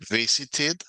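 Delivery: visited, ending -ed as an extra syllable; English past tense. Shown as a demonstration. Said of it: "se va a pronunciar en pasado". (pronunciación de visited con -ed silábica)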